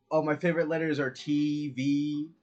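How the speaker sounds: T and V listed as single letters; two separate letters. Shown as a demonstration. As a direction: demonstrate naming T, then V. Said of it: "if you were saying letter T".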